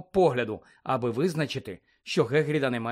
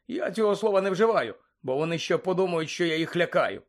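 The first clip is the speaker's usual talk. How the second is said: jovial man confiding, slightly exasperated; a hint of a blustery official; lightly voiced chatty Bagman; 3 semitones higher than usual. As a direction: grumble lightly in a somewhat lifted voice.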